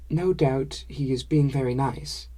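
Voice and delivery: put-on gentle, kind reassurance in a light foreign accent; kindly. Sumi comforting the narrator about his father, kindly. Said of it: "said Sumi kindly".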